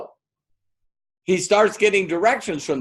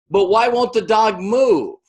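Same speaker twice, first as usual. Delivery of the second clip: exasperated; 7 semitones higher, 4 dB louder than usual. Retold or imitated. Baffled traveler in told joke.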